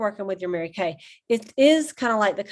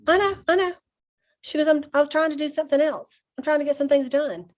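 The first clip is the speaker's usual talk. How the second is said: mock snooty brush-off; quoting the waitress brushing her off; 5 semitones higher than usual. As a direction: imitate a dismissive waitress, pitched higher. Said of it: "like, snooty with me".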